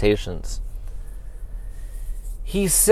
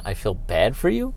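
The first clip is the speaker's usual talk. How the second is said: incredulous repeat; 4 semitones lower, 6 dB quieter than usual. Real, not acted. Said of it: "I don't think I'm thinking about the feelings".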